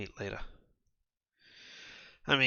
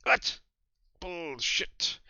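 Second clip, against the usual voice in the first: outraged disbelief; 7 semitones higher, much slower than usual. Acted. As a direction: explode in disbelief. Woman outraged at news.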